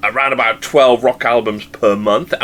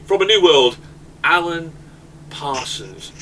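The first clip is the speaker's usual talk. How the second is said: stage announcer; 5 semitones higher than usual. Pretend. Host introducing the album to his panel as an announcer. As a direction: show host's stage announcement, pitched up.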